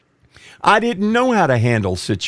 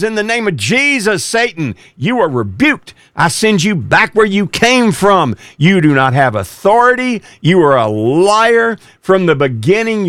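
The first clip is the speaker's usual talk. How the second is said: commanding prayer; 4 semitones higher than usual. Retold or imitated. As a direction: rebuke Satan with full authority. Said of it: "the prayer was".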